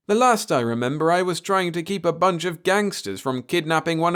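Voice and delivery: doctor pressing the alien for the story; bewildered doctor. A narrator's reading. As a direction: insist on answers despite the nightmare. Doctor voiced higher.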